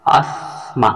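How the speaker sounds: "অসমা" split into অস and মা, with a pause between; word broken apart. Shown as a demonstration. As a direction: say "অসমা" in two separate parts, holding the s before মা. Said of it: "ভেঙে দিয়ে".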